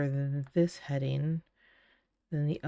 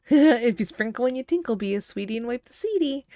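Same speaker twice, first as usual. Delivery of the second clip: sing-song recitation; 5 semitones higher, 6 dB louder than usual. Pretend. Reciting old bathroom sign.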